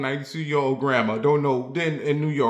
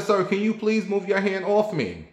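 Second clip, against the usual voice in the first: high exasperated plea; 7 semitones higher than usual. Retold or imitated. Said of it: "I said".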